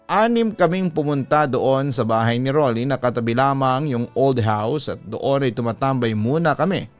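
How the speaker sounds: usual speaking voice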